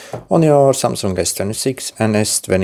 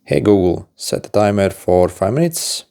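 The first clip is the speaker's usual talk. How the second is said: talking to voice assistant. Shown as a demonstration. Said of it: "You're going to need to say a few phrases".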